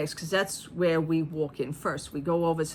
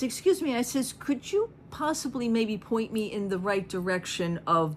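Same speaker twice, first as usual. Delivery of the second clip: professional voice; 5 semitones higher than usual. Retold or imitated. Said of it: "Said it just like that, 'cause I am a professional when I talk like that".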